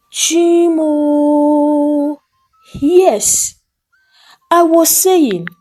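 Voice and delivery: high, alarmed admission; mother realising she spoke aloud; dismayed realisation. A narrator's reading. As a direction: realise the mistake. Admitting mistake.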